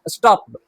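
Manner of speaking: स्टॉप्ड said stopt with a light t; teacher shows स्टॉप्ड ends in a half t; half t ending. Shown as a demonstration. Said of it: "हम पूरा ट नहीं".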